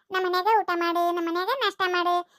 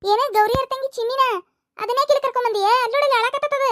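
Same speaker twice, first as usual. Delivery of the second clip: raised, high reproachful questioning; scolding mother; 4 semitones higher, 3 dB louder than usual. Acted. Mother scolding son for bringing a crying child, reproachful. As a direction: tell the boy off sharply.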